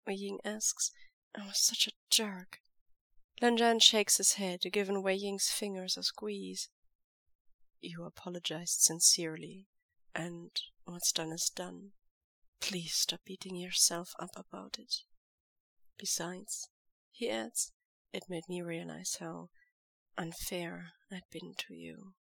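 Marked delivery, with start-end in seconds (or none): 1.3-2.6 guilty whispered admission; hushed self-reproach; ashamed whisper. Acted. Wei Ying guilty confession. 7.8-22.1 soft firm lover's voice; quiet devoted lover. Acted. Lan Zhan soothes.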